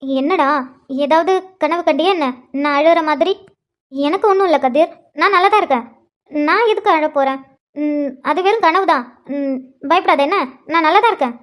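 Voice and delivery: hesitant, halting denial with little pauses; flustered stumbling. Acted. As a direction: falter and repeat while denying it. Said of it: "இப்ப எதுக்கு இவ்ளோ தட்டு தடுமாறி பேசுற?". (தட்டுத் தடுமாறி மறுப்பது)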